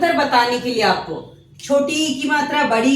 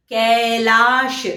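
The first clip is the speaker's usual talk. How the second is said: गीता drawn out very slowly, syllable by syllable; slow classroom enunciation; slow teaching demo; much slower than usual. Shown as a demonstration. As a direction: spell out गीता slowly for children. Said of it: "ए की मात्रा के शब्द क्या होंगे".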